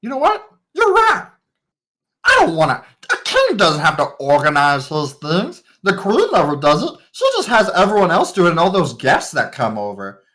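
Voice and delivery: put-on a spoiled young king gushing at his servants; gushing boy king. Young king gushes over his servants, high and eager. King NPC gives away keys.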